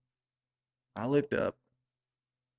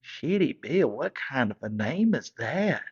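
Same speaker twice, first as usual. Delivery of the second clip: incredulous parents; 3 semitones higher than usual. Retold or imitated. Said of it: "They said".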